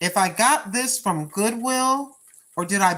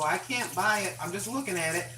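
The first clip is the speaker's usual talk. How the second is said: softer, hushed "I can't buy it"; hushed aside; 8 dB quieter than usual. Retold or imitated. Mom tells her son on the phone from the store aisle, hushed.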